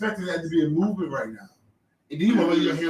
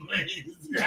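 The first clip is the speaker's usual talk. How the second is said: mock crying plea; 3 semitones higher, 10 dB quieter than usual. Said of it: "I said".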